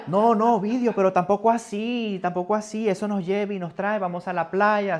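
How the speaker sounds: high, loud laughing protest; wife objecting. Retold or imitated. Wife laughing at her husband, high loud protest. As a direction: talk him out of it, amused.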